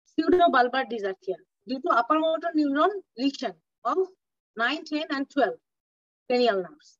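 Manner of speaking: very slow, word-by-word dictation. Shown as a demonstration. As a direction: draw every word out for note-taking. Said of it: "teacher dictating definition".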